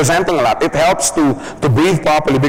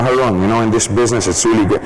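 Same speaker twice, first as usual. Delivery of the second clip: right pace; 4 semitones lower, faster than usual. Shown as a demonstration. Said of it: "speaks at the right pace".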